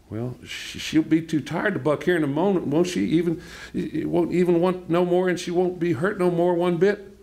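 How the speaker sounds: high-pitched mother's voice; Mama coaxing. A narrator's reading. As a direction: pitch it well up, urging and reassuring. Mama reassures, voiced in the story.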